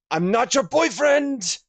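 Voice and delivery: high, loud cartoon-kid yelp at I'm not your boyfriend; playful cartoon shriek of denial; Chowder voice. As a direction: squeal it like Chowder protesting. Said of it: "says Chowder".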